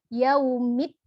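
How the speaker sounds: Yaumid with the dal pressed hard; stress on the d. Shown as a demonstration. Teacher drilling the stressed dal. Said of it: "berikan penekanan pada huruf dalnya".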